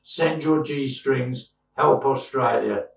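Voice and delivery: slow, drawn-out mock charity plea; milk it like a cheeky fundraising ad; mock appeal. Jokey sign-off appeal.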